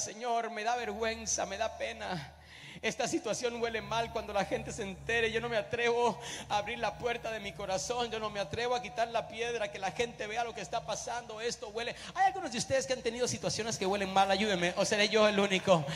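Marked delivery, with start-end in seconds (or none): 0.0-11.9 soft, embarrassed murmur of a sister; hushed and ashamed, as if confessing; ashamed Marta. Acted. Marta objects, ashamed, at the tomb.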